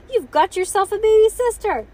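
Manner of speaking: loud, high announcement; excited cry. A narrator's reading. Bean telling Ivy of new sister, crying out excitedly. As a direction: proclaim thrilling news at full pitch. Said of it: "cried Bean".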